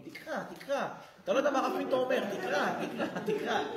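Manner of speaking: mock nagging wife pressing a book. Preacher voices a wife nagging her husband, mock pushy.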